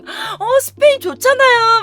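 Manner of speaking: gushing masseuse. Retold or imitated. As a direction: coo over it like a chatty masseuse. (수다스러운 마사지사 흉내)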